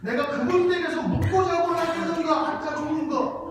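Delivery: high, loud Jeolla dialect echo with laughter. Shown as a demonstration. Pastor savours the Jeolla dialect line again for the congregation, laughing. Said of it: "야".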